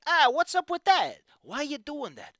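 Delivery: lightly acted disbelief; mock incredulity. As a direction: act out a taken-aback reaction. Acts out the character's startled thoughts.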